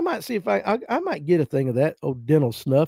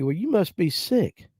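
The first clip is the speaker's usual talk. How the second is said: put-on slow, insisting old granny; stubborn granny; 2 semitones higher, 5 dB quieter, slower than usual. Granny insisting her grandson must be sick, slow. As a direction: drag it out, not taking no. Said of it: "granny insisting".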